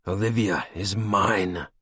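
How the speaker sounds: forced slowly through clenched teeth; gritted teeth. Acted. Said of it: "I forced through gritted teeth".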